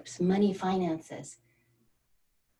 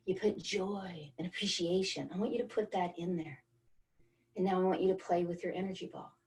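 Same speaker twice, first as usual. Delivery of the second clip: guided breathing exercise. Acted. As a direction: ease the group into the feeling, gently. Leads breathing energy exercise.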